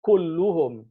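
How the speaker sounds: Kulluhum with u endings, stressed. Shown as a demonstration. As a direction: say Kulluhum with damma. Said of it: "So he didn't say".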